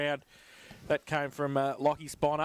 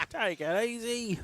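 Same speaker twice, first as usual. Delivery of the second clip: laughing; 8 semitones higher than usual. Real, not acted. Repeats the line while laughing.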